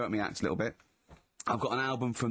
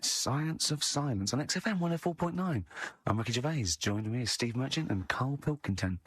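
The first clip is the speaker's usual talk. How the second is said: radio DJ voice. Shown as a demonstration. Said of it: "I'm gonna announce it right".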